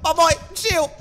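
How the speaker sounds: high, frantic appeals; panicked pleading. Real, not acted. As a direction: beg the pursuer to back off. Begs pursuing frog to chill.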